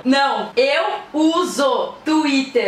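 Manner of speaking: very slow, over-articulated phrase; slow exaggerated mouthing. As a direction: stretch each word out. Mouthing phrase for lip reading.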